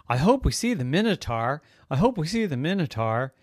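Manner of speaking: put-on sing-song teasing kid voice; teasing brother. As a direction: tease her playfully.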